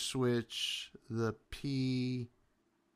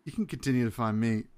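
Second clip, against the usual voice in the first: burping the words; faster than usual. Real, not acted. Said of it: "Let me just burp real quick".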